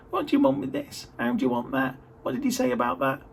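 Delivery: high-pitched joke imitation of a pestering caller; mock pestering caller, pitch jumping up high; Gary pestering. Gary pestering the speaker on the phone with questions, mock high-pitched voice. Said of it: "that's not how he talks".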